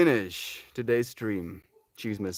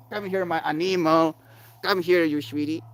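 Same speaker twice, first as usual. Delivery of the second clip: higher, affectionate pet call; cooing at a pet; 6 semitones higher than usual. Real, not acted. Calling the pet over for affection, higher cooing. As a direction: coax a beloved animal over.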